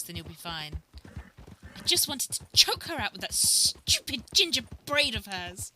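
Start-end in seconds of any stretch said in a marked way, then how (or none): 1.8-5.7 put-on loud, higher, venomous hateful girl; Cecily's voice. Friend asked for Cecily, she snarls a loud higher threat. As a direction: spit out the grudge like a jealous rival. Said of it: "in Cecily's voice".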